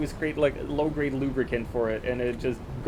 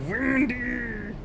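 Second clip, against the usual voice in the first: high call; 10 semitones higher than usual. Acted. Calling out name.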